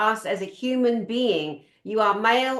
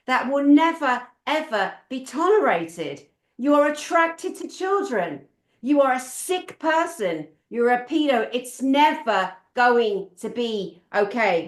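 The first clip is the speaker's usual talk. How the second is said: forceful, emphatic denunciation; real outrage, firm and insistent; angry condemnation; 3 dB louder than usual. Real, not acted. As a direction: lay down an absolute line, punching key words. Angry condemnation addressed to imagined offender.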